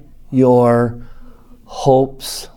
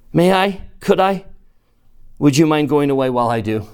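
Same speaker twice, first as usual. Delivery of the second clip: put-on timid girl; 3 dB louder than usual. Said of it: "said Jill".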